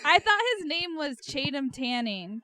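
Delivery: Chatham Tanning said slowly, as "chay-dum tanning"; swapped sounds. Real, not acted. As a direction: slowly garble the name into Chatham Tanning, first letters swapped. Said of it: "I just can't".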